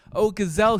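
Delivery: high mouse voice calling out; a little mouse hailing a gazelle. Acted. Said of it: "he called out".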